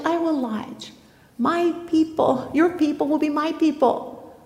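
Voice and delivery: high, slow, earnest vow; Ruth's earnest pledge. Acted. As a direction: plead to stay with her.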